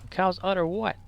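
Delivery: puzzled double-act question, rising at the end; Abbott and Costello. Acted. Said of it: "Like Abbott and Costello".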